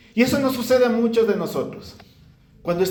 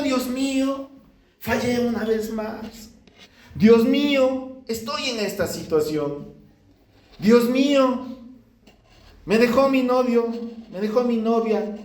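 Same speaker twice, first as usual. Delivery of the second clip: higher, drawn-out begging of Dios mío; tearful plea; 4 semitones higher than usual. Retold or imitated. Preacher acts a believer crying before God, pleading. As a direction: beg God as if through tears. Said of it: "estamos llorando postrado delante de Dios".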